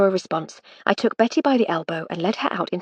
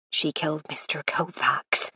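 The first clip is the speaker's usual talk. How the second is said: soft, slow, breathy secret whisper; hushed whisper of a frightened maid; 4 dB quieter, slower than usual. Acted. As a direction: whisper it so nobody overhears. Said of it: "she whispered".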